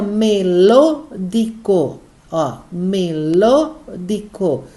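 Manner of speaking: melódico slowly as me-LO-di-co, each syllable apart; stress on LO. Shown as a demonstration. Teacher showing the last little word, melódico split with LO stressed. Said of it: "O lo é a sílaba tônica".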